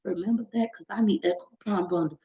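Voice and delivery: mock-eager, tailing into a murmur; eager self-talk. Creator tells herself to message the follower, eager self-talk. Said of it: "Now I'm like".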